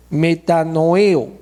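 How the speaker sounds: "metanoeo" lento, con acento en la E. Shown as a demonstration. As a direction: draw out "metanoeo", stressing the E. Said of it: "con acento en la E". ("metanoeo" pausado, acentuando la E)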